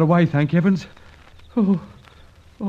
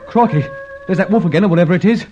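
alarmed; 2 semitones higher, 5 dB louder, much faster than usual. Acted. Howl heard in the ruins.

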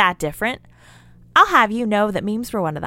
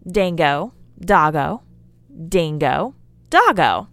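playful sing-song; slower than usual. Shown as a demonstration. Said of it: "it is fun to say".

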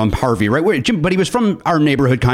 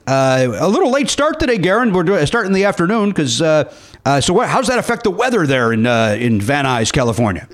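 higher, hammed-up segment host voice; radio host bit; 3 semitones higher than usual. Host introducing a mock weather desk, announcer manner.

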